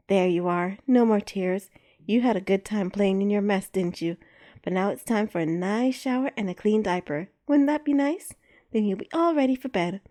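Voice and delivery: gentle calming coo; soothing. Acted. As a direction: hush a startled baby. Soothing a baby.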